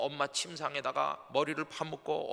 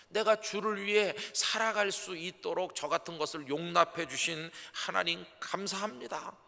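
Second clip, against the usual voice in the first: higher, louder heartfelt prayer; fervent prayer; 5 semitones higher, 3 dB louder than usual. Shown as a demonstration. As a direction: pour it out to God. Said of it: "이런 기도를 했습니다".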